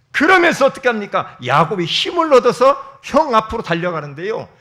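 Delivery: loud, high fervent preaching; a preacher pressing the point to the congregation; full-force preaching. Acted. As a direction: proclaim it with passion. Preaching climax.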